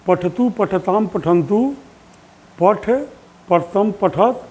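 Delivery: slow, drawn-out chanting of verb forms; sing-song drill of Sanskrit endings; slow recitation. Shown as a demonstration. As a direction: recite each form slowly for practice. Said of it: "धीरे धीरे बोलते रहिए".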